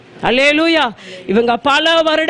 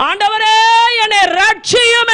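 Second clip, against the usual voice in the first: raised, pleading cry to the Lord; crying out for rescue; 5 semitones higher than usual. Retold or imitated. Peter sinking in the sea, crying to the Lord. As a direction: cry out like a sinking man begging to be saved. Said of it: "என்று கூப்பிட்டான்".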